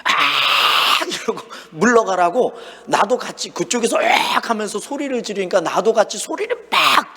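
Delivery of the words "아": a short loud "아!" yelled at charging lions; mock scream of fright to scare them off; a half-hearted retold scream. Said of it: "소리를 지르기 시작했어요".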